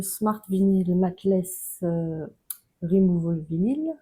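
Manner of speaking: English product name in a French accent. Real, not acted. Crafter naming the vinyl to choose, French-accented English. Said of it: "avec mon accent merveilleux".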